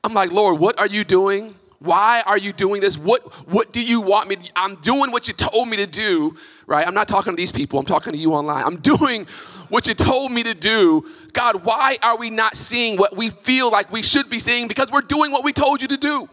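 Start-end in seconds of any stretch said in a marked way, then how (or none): 0.3-6.3 frustrated plea. Retold or imitated. Preacher voices frustrated prayer. 8.6-16.3 frustrated plea. Retold or imitated. Preacher voices frustrated prayer.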